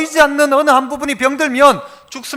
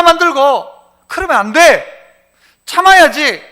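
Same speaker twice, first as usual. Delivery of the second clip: put-on firm, louder telling-off to children; scolding kids; 3 semitones higher, 5 dB louder than usual. 예수 믿는 아이가 친구들을 큰소리로 타이름. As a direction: set the children straight, firmly. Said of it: "라고 말하는 사람이 있었다면".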